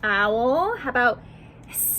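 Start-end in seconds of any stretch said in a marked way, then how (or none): 1.7-1.9 snake hiss. Shown as a demonstration. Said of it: "match the animal sounds".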